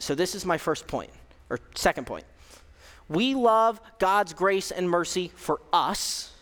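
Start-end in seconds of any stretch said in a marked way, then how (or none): 3.1-6.3 slow, deliberate, leaning on love; slow emphasis. Shown as a demonstration. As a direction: let each word land slowly. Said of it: "this is probably the biggest".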